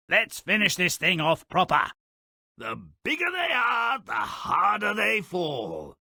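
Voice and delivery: high, shouted triumph; triumphant shout. Acted. Jack chopping down the beanstalk, high triumphant shout. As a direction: crow as the giant goes down.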